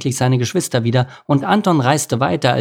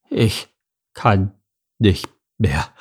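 out of breath, halting between words; exhausted, breathless gasps; gasping; 2 semitones lower, slower than usual. A narrator's reading. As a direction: pant it out in broken pieces. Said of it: "japste Anton".

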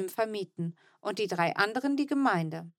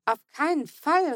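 higher, louder outburst of dismay; horrified cry; 6 semitones higher, 5 dB louder than usual. A narrator's reading. Child protesting selling grandma's house, horrified shout. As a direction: blurt it out, appalled at the idea. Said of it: "rief ich entsetzt".

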